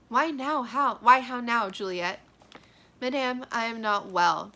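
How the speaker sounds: mother calls, daughter answers weakly; dramatic dialogue reading. Acted. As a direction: read both parts aloud.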